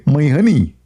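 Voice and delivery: put-on tender husband saying "My honey"; Zakir Naik. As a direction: say "My honey" as mock sweet talk. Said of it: "huge difference between honey and honey".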